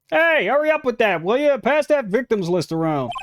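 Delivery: impatient shout. Acted. Detective barking at colleagues.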